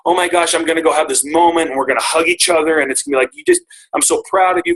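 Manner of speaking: imagined gush of pride, voice rising high; gushing proud parent. Retold or imitated. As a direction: play out a proud, emotional moment. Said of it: "in my mind, I'm like".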